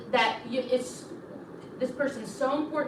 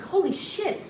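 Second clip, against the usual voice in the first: shocked aside; 8 semitones higher, slower than usual. Retold or imitated. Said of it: "I was like".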